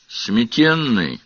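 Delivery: slow, curt single word; short and clipped. Acted. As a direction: say it shortly and plainly. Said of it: "коротко и ясно ответствовала".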